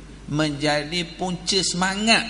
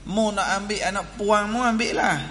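higher-pitched, insistent family demand; retold argument, pitched up and emphatic; imitating demanding in-laws; 3 semitones higher than usual. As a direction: lay down the family's claim in a raised pitch. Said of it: "Hak keluarga lelaki kata".

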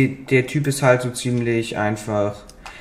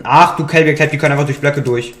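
louder frustrated exclamation; loud exasperated outburst; 3 semitones higher, 6 dB louder than usual. Real, not acted. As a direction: blurt it out in exasperation. Swarmed by enemies. (laut und genervt)

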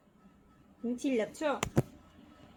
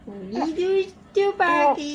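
slow tender coo; 2 semitones higher, much slower than usual. Real, not acted. Mother cooing to baby.

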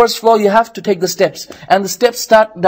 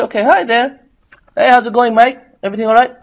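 mock friendly greeting, lightly voiced; breezy greeting to a girl, imitated lightly; nice, cheerful; 4 semitones higher than usual. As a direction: play the cheerful young man saying hi. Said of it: "nice, cheerful".

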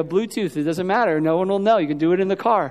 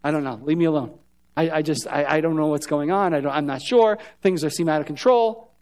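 lost and overwhelmed; 5 semitones lower than usual. Retold or imitated. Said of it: "we just get to a place where you're like".

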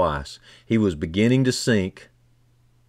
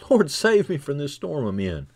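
higher mock yell, not full volume; mock desperate cry; 4 semitones higher than usual. Shown as a demonstration. Preacher shows crying out to the Lord in a storm, mock desperate cry. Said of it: "yell at the top of your lungs".

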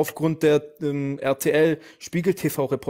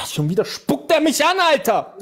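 words squeezed out through real laughter, pitched higher; laughing; 10 semitones higher than usual. Real, not acted. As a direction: laugh while complaining that he spits again. Laughing complaint about being spat at.

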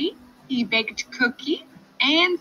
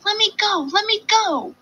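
squealing; 12 semitones higher, 5 dB louder than usual. Acted. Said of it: "The piglet kicked and squealed".

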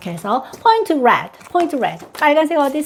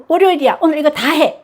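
pushy parent; 5 semitones higher, faster than usual. Retold or imitated. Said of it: "이러지 마세요".

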